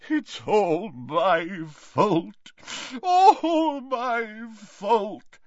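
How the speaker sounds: very slow, high, crying; sobbing. Acted. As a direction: sob out the guilt. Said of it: "he sobbed".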